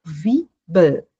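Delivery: Zwiebel with ts-v start; German Zwiebel. Shown as a demonstration. Teacher demonstrating Zwiebel for the class. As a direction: say Zwiebel as tsviebel. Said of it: "Z tem som de ts".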